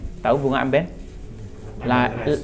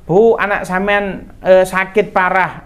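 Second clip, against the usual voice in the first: raised, slow call to the mother; 7 semitones higher, 4 dB louder, slower than usual. Acted. Messengers bringing a mother bad news, calling out.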